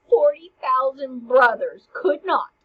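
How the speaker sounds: loud, slow, emphatic stage delivery; mock-dramatic declaiming. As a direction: proclaim it slowly like a stage Hamlet. Hamlet declaims his love at graveside.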